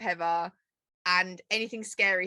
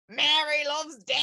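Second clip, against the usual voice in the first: laughing imitation; 6 semitones higher than usual. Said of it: "he's like".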